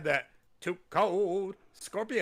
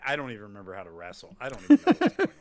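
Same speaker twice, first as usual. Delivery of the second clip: mock confused wrestler; 7 semitones lower, 6 dB louder, much faster than usual. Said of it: "Loomis is like".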